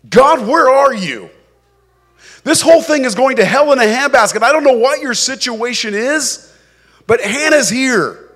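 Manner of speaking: praying woman venting her anger at God; Hannah's angry prayer. Acted. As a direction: cry out at God in frustration.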